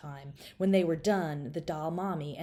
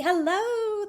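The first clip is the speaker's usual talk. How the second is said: much higher sing-song doll hello; doll family's hello; 8 dB louder than usual. Acted. Dolls greeting the girl, high doll voice. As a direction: answer in a tiny high doll voice. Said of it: "the doll family said".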